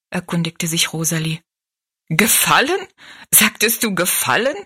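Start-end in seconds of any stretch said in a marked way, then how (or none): 2.1-4.6 indignant echo. Acted. Maid repeats question indignantly.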